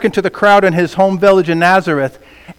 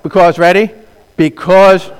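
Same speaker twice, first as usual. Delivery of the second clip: louder; 4 dB louder than usual. Shown as a demonstration. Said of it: "go, wait, wait, go back".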